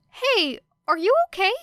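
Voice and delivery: put-on high, worried boy's voice; anxious Midoriya. Midoriya checking on Era, high and worried.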